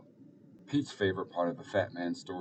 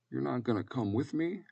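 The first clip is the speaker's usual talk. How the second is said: higher, small pleading question; hurt child; 6 semitones higher than usual. Acted. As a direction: ask like a child about to cry. Child learns Nona is staying.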